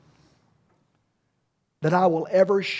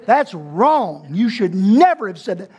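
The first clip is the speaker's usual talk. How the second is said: louder, scolding as the upset mamas; a hint of indignant mothers scolding; mock outraged mothers; 5 dB louder than usual. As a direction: voice the crowd's protest. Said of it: "mamas are about to come out of those chairs".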